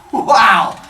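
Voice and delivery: loud, slow awed wow; stunned wow. Acted. Cronus stares at his monstrous brothers, loud and slow. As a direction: stare in disbelief.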